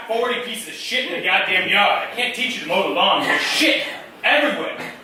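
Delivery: high, loud, exasperated rant; raging dad. Retold or imitated. Dad angry about mess in the yard, loud rant. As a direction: rant loudly in hammed-up fury.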